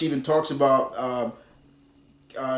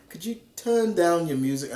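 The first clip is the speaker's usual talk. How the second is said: higher-pitched imitated British accent; 4 semitones higher than usual. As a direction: ask politely in a put-on British accent. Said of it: "why am I doing a British accent".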